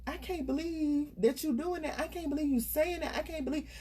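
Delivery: mock distraught disbelief; retold upset disbelief. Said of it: "I would get so upset".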